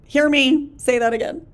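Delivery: loud, emphatic call to listen; really loud. Real, not acted. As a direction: raise the voice to drive the point home. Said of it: "Ooh, I just got really loud".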